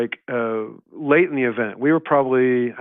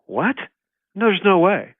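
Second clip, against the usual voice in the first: higher-pitched incredulous reaction; mock-incredulous, pitched up; retold disbelief; 8 semitones higher, 3 dB louder than usual. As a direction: act out a team balking at a rumor. Retold stunned reaction to rumor.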